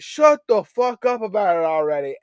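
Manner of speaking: put-on southern accent. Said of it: "this southern accent".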